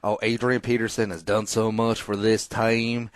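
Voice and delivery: lightly put-on swamp-water Southern accent; mock southern accent. Podcaster mocking rude Vikings fans, light Southern accent. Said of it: "like a back Mississippi swamp water accent".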